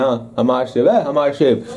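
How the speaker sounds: proud apple owner. Pretend. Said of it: "इसके ऊपर पे हाथ फेर के बोल रहे हैं".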